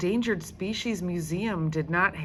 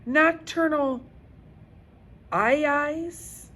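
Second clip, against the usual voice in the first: put-on a girl putting on a clever voice; trying to sound smart; 10 semitones higher, 5 dB louder than usual. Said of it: "wanted to sound as smart as Jessica Finch".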